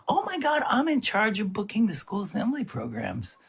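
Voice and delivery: high-pitched imitation of a thrilled teacher; excited amazement. Teacher discovers he does assembly programs, high excited amazement. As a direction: gush at the coincidence, voice way up.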